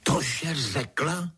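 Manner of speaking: high, slow outraged cry; the mistress exclaims in disbelief; shocked exclamation, drawn out; cried out. A narrator's reading. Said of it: "vykřikla paní".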